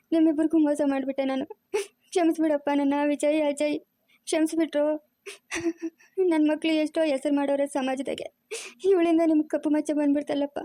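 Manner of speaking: crying through the words, pleading; tearful apology. Acted. Mother begging her sons Vijay and Ajay to forgive her, weeping. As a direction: beg forgiveness while weeping.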